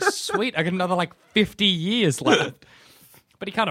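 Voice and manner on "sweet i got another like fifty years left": smug dog glee. Retold or imitated. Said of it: "Follow's just like".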